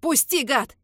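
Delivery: put-on young man yelling at Carter to let go; furious yell. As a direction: scream it in his face. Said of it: "ору я Картеру в лицо".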